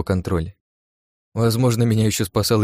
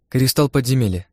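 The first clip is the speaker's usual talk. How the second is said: smiling; 4 semitones higher than usual. Acted. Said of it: "улыбнувшись, пояснила мне она".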